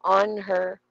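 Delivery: "On her" as two separate, fuller words; careful unreduced take. Shown as a demonstration. Teacher contrasting forms for students, "On her" said fully. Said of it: "mabilis lang siya at soft lang siya".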